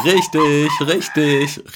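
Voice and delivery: high, loud, gleeful confirmation; laughing call. A narrator's reading. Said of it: "rief der alte Mann lachend". (lachend gerufen)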